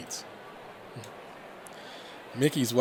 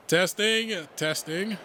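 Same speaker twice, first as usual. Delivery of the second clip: mic check; 7 semitones higher, 3 dB louder, slower than usual. Acted. Tentative microphone check by Theodore.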